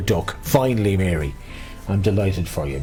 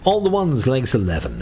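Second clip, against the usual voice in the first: sing-song number calling; bingo caller; 5 semitones higher than usual. Acted. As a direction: lilt each number like a bingo hall.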